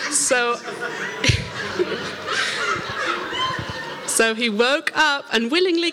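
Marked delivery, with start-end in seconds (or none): 0.6-4.0 long airy giggle, much higher; laugh. Real, not acted. Recalling waking Jonas for pen, airy giggle. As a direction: let the giggle run out.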